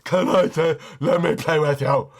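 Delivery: a hint of a pleading girl; mock girl voice. Owner mimicking the woman who asked to play, lightly voiced. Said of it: "stepped in front of it going".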